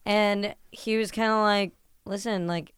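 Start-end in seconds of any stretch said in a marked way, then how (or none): 2.0-2.7 earnest. Retold or imitated. Host retelling a defence of a singer, understated earnest. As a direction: gently retell a sincere defence. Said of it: "it was, like, very earnest".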